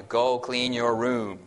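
slow, level, almost threatening; monotone threat. Shown as a demonstration. Parent ordering a child to clean, cold monotone. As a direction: drain every emotion, slow and even. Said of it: "it's, it's monotone".

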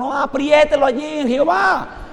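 hearty and eager; hearty embrace. Shown as a demonstration. Preacher showing how to hug a brother, with gusto. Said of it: "no le abrace".

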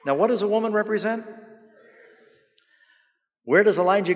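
loud, driving preacher cadence; full-force preaching. Acted. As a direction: build the sermon to a climax.

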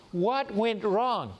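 drawn-out self-questioning; slow puzzled question. Retold or imitated. Asking himself after the breakup, slow and puzzled. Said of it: "I was thinking about it, and I say".

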